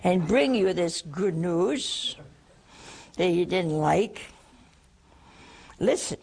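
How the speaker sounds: slow firm angel; stern Gabriel. Retold or imitated. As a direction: lay it down slowly. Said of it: "Go, give it to him, Gabriel".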